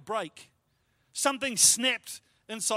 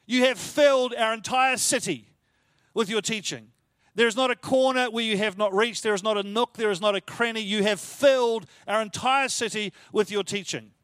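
louder, hitting "filled" and "not a corner"; building emphasis; 4 dB louder than usual. Shown as a demonstration. Preacher hammering home the city being filled, building louder. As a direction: preach it, rising in force. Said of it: "How impressive is that statement?".

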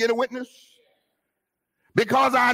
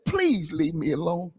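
understated retelling, a small stretch on PLEASE; retold plea; 3 semitones lower, 3 dB quieter than usual. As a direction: repeat the plea lightly, without the wail. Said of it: "he said".

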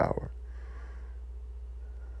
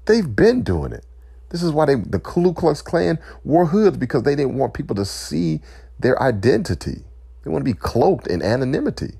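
impassioned outcry; 9 semitones higher than usual. Real, not acted. Impassioned protest against police racism.

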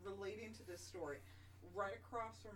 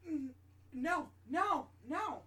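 imitated refusal; 7 semitones higher, 9 dB louder, much slower than usual. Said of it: "He was like".

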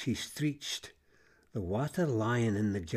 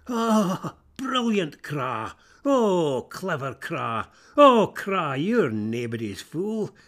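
self-congratulating cheer; 3 semitones higher, 5 dB louder, slower than usual. Acted. Crow praising himself.

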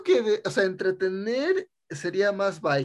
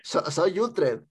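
mock Spain accent; slower than usual. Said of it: "ese no es acento español".

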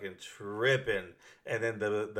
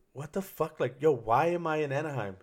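higher-pitched, imitated tearful bewilderment; retold tearful disbelief; 5 semitones higher than usual. Man retelling waking up handcuffed in Anaheim, mock tearful. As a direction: retell your own panicked crying, pitched up without real sobs. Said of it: "and I just started crying".

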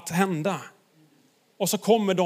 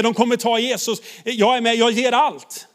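raised, quick and fired up; eager vow; 4 semitones higher, 3 dB louder than usual. Pretend. Petrus tells himself he'll fight, fired up. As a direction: Petrus ready to fight, all in. Petrus vows to defend Jesus.

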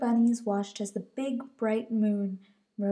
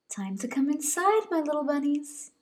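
Mama Bunny calling; 6 semitones higher than usual. Acted.

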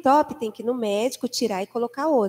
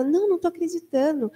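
higher-pitched, mildly flustered mimicry; lightly acted alarm; retold panic; 4 semitones higher, faster than usual. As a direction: imitate a nurse fretting and rattling on. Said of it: "ela toda apavorada".

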